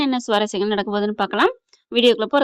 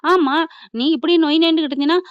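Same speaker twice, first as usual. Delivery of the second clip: sharp louder raised threat; angry threat; 5 semitones higher, 5 dB louder than usual. Retold or imitated. Husband warns nagging wife, raised angry voice. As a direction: cut her off with a warning.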